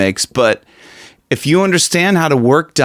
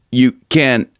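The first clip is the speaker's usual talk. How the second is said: closed-off throat. Shown as a demonstration. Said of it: "that is what I'm talking about".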